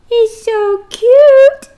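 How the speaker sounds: put-on high, slow cooing as if over a baby; cooing cute voice. Teacher acting out the cute picture for her students, high slow coo. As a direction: gush sweetly like something adorable. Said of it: "It's trying to show you cute".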